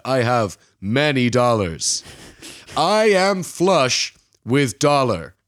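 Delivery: hammed-up upstanding American gentleman, slow grand flourishes; posh American. Archie conning a mark as a wealthy American, posh American accent. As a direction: put on a loud, super posh American accent. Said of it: "a super posh, like, upstanding American".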